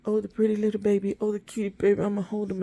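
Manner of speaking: high, fast cooing over a puppy; mock baby talk. Owner cooing at the new puppy in high baby talk. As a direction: gush like you're cooing at a baby. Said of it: "instead of looking at the puppy like".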